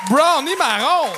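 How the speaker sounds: announcer call. Real, not acted. Host calls comedian's name after set.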